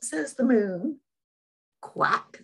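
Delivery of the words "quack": whispered duck quack. Acted. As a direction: quack in a hushed voice at bedtime. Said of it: "says the mother duck".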